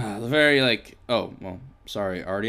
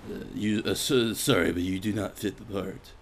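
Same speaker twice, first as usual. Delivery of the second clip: brash movie producer; 4 semitones lower, 5 dB quieter than usual. Pretend. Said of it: "says the, the greasy, uh, movie producer".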